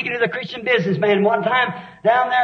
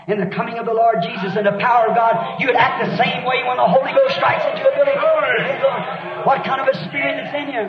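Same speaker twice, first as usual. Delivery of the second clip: preaching shout; 3 semitones higher than usual. Real, not acted. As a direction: thunder it out from the pulpit. Preacher shouting the point at the man.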